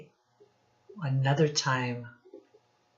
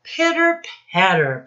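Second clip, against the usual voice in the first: loud, higher bursts of sound words; louder comic-book sound effects read aloud; punchy sound words; 4 semitones higher, 8 dB louder, slower than usual. Shown as a demonstration. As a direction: pop each word out for the class. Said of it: "boys and girls".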